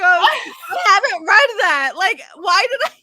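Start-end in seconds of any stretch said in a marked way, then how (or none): 0.0-1.9 louder mock offhand "I haven't read that"; imitating offhand reply. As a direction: replay the clueless line, loud and casual. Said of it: "she goes".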